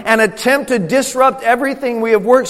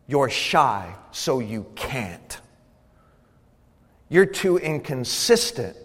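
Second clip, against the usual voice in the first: tag; 8 semitones lower, 7 dB quieter, slower than usual. Retold or imitated. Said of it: "To whisper in your ear".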